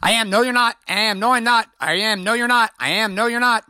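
high, singsong back-and-forth; mock bickering. Dad and daughter arguing over shoes, mock bickering, high. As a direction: act out both sides of an endless squabble. Mimics repeated parent-child argument.

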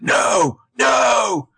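loud, high anguished mock shout; Caleb. Imitating a boyfriend finding her body, mock anguished shout. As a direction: wail it out like a hammed-up TV hero. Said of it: "And Caleb's like".

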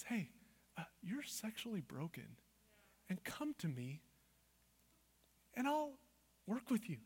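very soft, gentle invitation; kind God. Acted. God inviting the broken to come to him, softly kind. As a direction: invite them in quietly and tenderly. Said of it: "The kind voice of God says".

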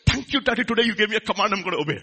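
lightly voiced grateful child; mock cheerful obedience; eager obedient child. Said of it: "How many of your children said".

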